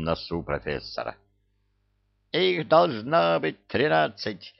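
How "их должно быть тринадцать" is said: squealing professor. Acted. Professor ranting in debate.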